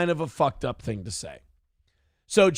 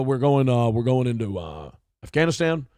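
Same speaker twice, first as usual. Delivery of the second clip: Obama impression; 5 semitones lower than usual. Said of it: "Barack Obama used to go".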